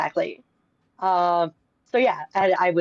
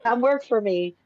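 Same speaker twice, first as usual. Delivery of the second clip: beckoning company voice; 6 semitones higher than usual. Retold or imitated. Company luring her back to work.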